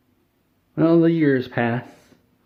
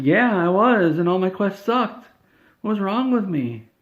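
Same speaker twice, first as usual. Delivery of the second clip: mock crying; 8 semitones higher than usual. Todd confessing his quests sucked, mock crying. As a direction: play a grown man about to blubber, half-joking. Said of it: "Todd starts crying".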